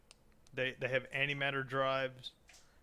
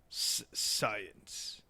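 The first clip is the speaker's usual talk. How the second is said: SCIENCE held back on the S, in scare quotes; air-quoted; 4 semitones lower than usual. Shown as a demonstration. Host doubting their own expertise, air-quoted SCIENCE. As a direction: put audible air quotes round SCIENCE. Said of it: "I wish that I could express air quotes".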